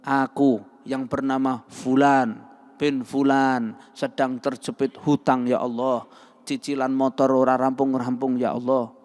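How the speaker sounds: contoh doa yang merendah, memelas; humble begging prayer. Shown as a demonstration. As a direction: minta kepada Allah seperti orang mengemis. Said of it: "Buka tangannya, ngemis sama Allah". (contoh doa memelas kepada Allah)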